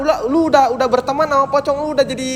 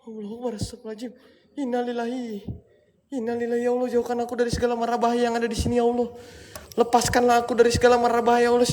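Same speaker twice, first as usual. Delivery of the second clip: frightened hushed prayer; 7 dB quieter, faster than usual. Real, not acted. Frightened praying in dark.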